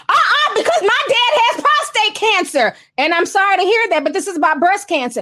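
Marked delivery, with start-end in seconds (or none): 0.1-2.7 higher, laughing parody of a heckler; mock the interrupter while cracking up; a half-laughing hammed-up heckler. Mocking a derailing marcher.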